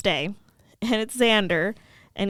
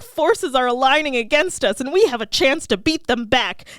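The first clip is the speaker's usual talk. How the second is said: urgent, louder dramatic speech; rally her for a fight, punching key words; Giles; 5 semitones higher, 4 dB louder than usual. Retold or imitated. Giles warning Buffy of dark forces, urgent and dramatic.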